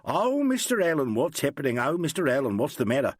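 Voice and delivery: high mock squeal of the actresses; lightly voiced squealing actress. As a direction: squeal like the flustered girls. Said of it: "they all start in squealing".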